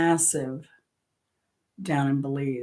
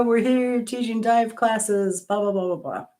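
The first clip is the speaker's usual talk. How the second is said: higher, slowed Australian imitation; retold Australian patter, pitched up; Australian accent; 6 semitones higher than usual. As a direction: lightly mimic Aussie guys chatting away. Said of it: "they're Australian".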